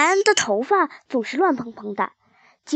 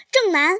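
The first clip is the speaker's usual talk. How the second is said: mournful call, 正 hit hard; mother calling out; 3 semitones higher than usual. A narrator's reading. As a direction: call 正南 with weight on 正 and a long trailing tail. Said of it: "只把正字咬得很重".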